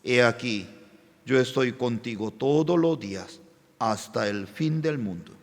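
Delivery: God's promise softly recalled in a hard time; tender promise. Retold or imitated. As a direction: let the verse land gently, as if heard inwardly. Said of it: "el Espíritu de Dios me envió esa palabra".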